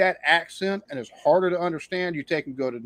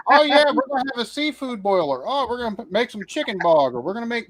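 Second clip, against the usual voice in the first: higher-pitched mimicking voice; mock eager cooks; 6 semitones higher than usual. Host mimics people planning a seafood boil, high mock enthusiasm. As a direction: imitate people proudly announcing their cooking. Acts out boastful cooks he mocks.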